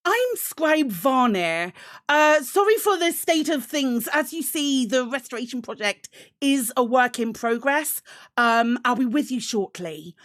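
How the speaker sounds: flustered scribe. Acted. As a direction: play the busy scribe apologising for the mess. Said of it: "she's like".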